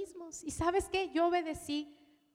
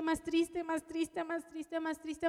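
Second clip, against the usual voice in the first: sadder and sadder; 5 dB quieter, slower than usual. Retold or imitated. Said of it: "yo me ponía más triste".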